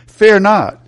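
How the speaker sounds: a ringing shout of "Fear not"; bold proclamation. Acted. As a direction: proclaim it like a command. Proclaiming verse, louder.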